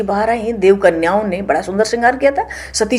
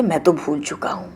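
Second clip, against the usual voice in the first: calm Shiva; 2 semitones lower, 5 dB quieter than usual. Acted. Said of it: "Shiv जी कहते".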